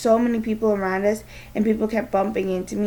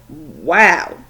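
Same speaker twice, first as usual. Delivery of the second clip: amazed wow; 3 semitones lower, 9 dB louder than usual. Acted. Dad amazed at daughter.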